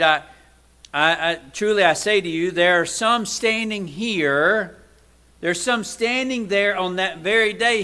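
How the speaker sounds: forceful scripture reading; fervent preaching. Acted. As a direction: declare it from the pulpit. Quotes verse forcefully.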